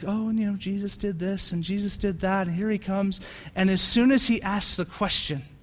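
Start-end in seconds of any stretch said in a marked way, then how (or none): 0.0-3.2 mock-sweet storytelling voice, much quieter. Retelling how an old woman taught a Bible story, imitating her sweet voice. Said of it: "she's got the sweet voice when she's talking Jesus".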